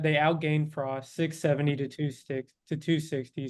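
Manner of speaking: speech slurred by a retainer; talking around a retainer; wearing a retainer. Real, not acted. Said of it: "my retainer is, like, messing with me".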